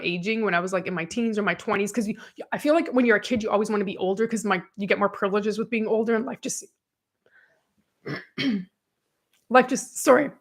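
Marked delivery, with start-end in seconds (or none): 6.2-10.0 losing voice. Real, not acted. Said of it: "I'm losing my voice".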